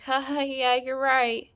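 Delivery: imitated hollow, agreeable chuckle; forced laugh. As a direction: play along with a put-on laugh. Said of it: "I forced myself to laugh too".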